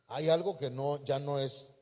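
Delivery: ordinary talk, nothing marked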